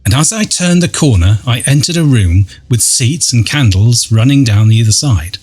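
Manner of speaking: measured, dramatic first-person storytelling; ghost story narration. A narrator's reading. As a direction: read an eerie account with deliberate pauses. Reads out a ghost-hunt account.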